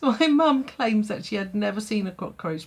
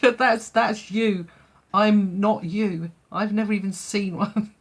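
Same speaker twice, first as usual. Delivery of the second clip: indignant retort; 5 dB louder than usual. Retold or imitated. Mum retorting to friend.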